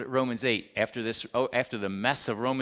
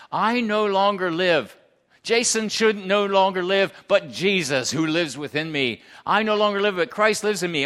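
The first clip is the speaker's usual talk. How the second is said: forceful proclamation; 4 semitones higher, 5 dB louder than usual. Real, not acted. Preacher proclaims scripture with force.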